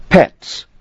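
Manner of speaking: high, sharp indignant pets. Acted. Angry customer reading rate.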